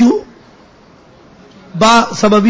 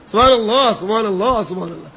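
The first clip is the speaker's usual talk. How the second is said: heavenly rapture; 2 semitones lower, 4 dB quieter than usual. Shown as a demonstration. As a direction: say سبحان اللہ like a blissful sigh. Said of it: "وہاں کی سبحان اللہ بھی الگ ہوگی". (جنتی انداز میں پُرکیف سبحان اللہ)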